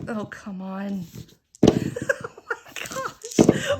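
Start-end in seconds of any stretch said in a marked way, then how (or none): 1.7-3.8 high, loud wail through helpless laughter; laughing despair. Real, not acted. Player as the timer runs out without a bunco, laughing despair. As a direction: plead and wail while cracking up.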